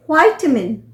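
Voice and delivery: विटामिन opened with a long "vai": VAI-ta-min; American pronunciation. Shown as a demonstration. Teacher showing learners the American variant, American pronunciation. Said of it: "ये हुआ American pronunciation".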